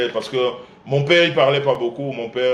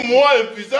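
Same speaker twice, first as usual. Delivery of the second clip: higher, laughing moi, impuissant; incredulous laugh on the word; laughing disbelief; 5 semitones higher, 4 dB louder, faster than usual. Real, not acted. Son laughing off the impotence claim, incredulous.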